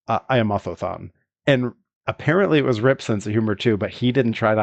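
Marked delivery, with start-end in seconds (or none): 0.3-1.1 Otho-san with a lisped th; light mock lisp on Otho-san; imitating a lisp. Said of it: "he walks up to Rip and goes".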